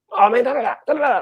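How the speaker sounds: very high, rambling patter. Imitating one of the fighters, who talks like Chris Tucker. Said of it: "it's just very much Chris Tucker".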